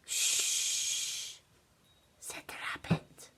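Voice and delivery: soft unvoiced shh and whisper. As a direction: hush her gently. Rabbit hushes Olivia again.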